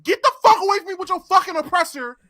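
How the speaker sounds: real gamer rage, pitch climbing; raging. Real, not acted. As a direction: vent at the griefer, exasperated. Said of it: "I can see you raging".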